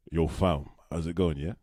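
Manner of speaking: Cockney and West Indian London mix; casual South London street greeting; South London accent. Shown as a demonstration. Showing a co-host South London speech, London accent. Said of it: "this is how I would speak if I was, like, from South London".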